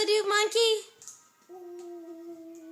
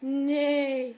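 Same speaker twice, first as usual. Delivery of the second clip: horse neigh. Shown as a demonstration. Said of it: "What's the horsey say?".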